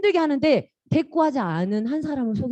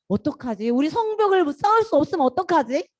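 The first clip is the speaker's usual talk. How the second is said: acted fretting, pitch lifting; play-acted anxious question; mock worrying; 2 semitones higher than usual. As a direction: fret aloud, only pretending. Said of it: "이런 걱정이 안 돼".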